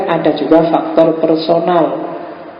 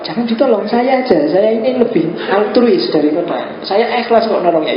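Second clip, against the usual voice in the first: mock pushy helper; 5 semitones higher than usual.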